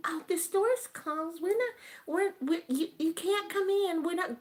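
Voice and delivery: high-pitched mock clerk voice; mock store clerk. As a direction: imitate a fussy clerk turning someone away. Retold store clerk turning customer away.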